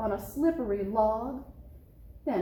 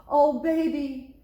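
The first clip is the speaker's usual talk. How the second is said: shuddering; 5 semitones higher, 8 dB louder than usual. Acted. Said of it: "he shuddered".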